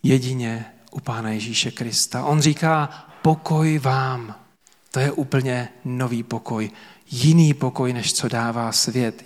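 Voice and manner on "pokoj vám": drawn-out, tender peace greeting; preacher voicing Jesus greeting disciples, slow and tender; slow, gentle blessing. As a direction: give peace slowly, like a blessing. Jesus's words voiced in sermon.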